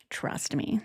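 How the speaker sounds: hushed breathy "Trust me"; mock whisper. Mocking a gushing friend who says trust me, whispered. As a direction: whisper it like a con man.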